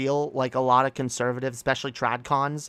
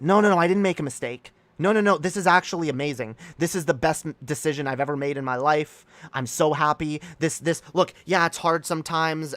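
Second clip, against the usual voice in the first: insistent self-convincing; 3 semitones higher than usual. Acted. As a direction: talk yourself into it, protesting too much. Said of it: "they have to convince themselves that".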